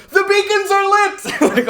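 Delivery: high, very slow epic announcement; epic proclamation. Retold or imitated. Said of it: "It was like".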